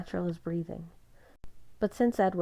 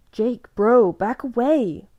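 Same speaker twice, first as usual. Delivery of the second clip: loud, higher, urgent yell; urgent shout; 6 semitones higher, 12 dB louder, slower than usual. A narrator's reading. Seth shouts at Jacob to back off, urgent. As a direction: shout to pull him back. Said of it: "I heard Seth Clearwater urge".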